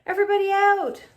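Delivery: high, loud urgent command; lifeguard's shout. A narrator's reading. Lifeguard ordering swimmers out, loud high shout. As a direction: clear the water now. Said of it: "blew his whistle".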